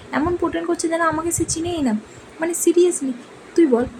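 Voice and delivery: a mild fed-up push for agreement; lightly voiced annoyance; exasperated. Complaining father pretends not knowing.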